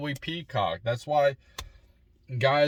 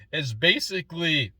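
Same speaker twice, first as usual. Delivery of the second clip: voice cracking; 5 semitones higher than usual. Real, not acted. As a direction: voice cracks on "basically". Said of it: "wow, my voice cracked".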